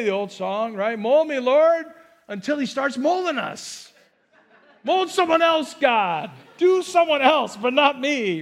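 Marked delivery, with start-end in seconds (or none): 1.0-1.9 eager plea. Retold or imitated. Voicing eager believer. 4.8-8.4 higher, louder laughing plea to spare me; laughing mock plea. Preacher plays a believer pleading to be skipped, laughing. Voicing believer dodging God's molding.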